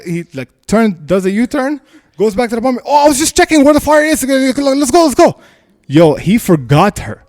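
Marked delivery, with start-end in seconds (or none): 2.9-5.4 high, loud, hurried backtracking; urgent mock cover-up; imitated flustered excuse. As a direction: mimic a man covering for fleeing. Imitating man covering for himself.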